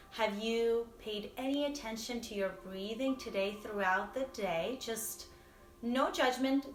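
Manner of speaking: gentle guided meditation voice. Real, not acted. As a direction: lead listeners into noticing their breath, unhurried.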